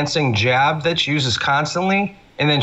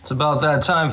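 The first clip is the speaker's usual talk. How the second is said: dramatic announcer. Acted. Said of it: "brought a watch in going".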